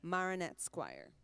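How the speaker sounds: Marionettes Choir said with a Trinidadian accent; name the choir the Trinidad way. Shown as a demonstration. Telling the interviewer how the choir is named at home, in a Trinidad accent. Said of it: "That's how you say it in a Caribbean accent".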